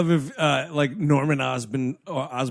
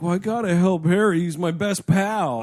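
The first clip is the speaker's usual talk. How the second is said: earnest hero; 3 semitones higher than usual. Retold or imitated. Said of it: "Andrew Garfield's like".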